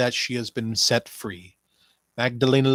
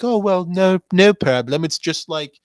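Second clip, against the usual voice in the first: mocking quote; 3 semitones higher, 4 dB louder than usual. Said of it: "their good friends were like".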